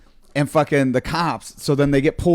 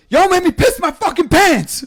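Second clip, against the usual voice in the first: much higher, louder squeaky imitation of the dude; hammed-up terrified guy; high mock voice; 6 dB louder than usual. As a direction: shriek it like a panicked stranger. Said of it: "He goes".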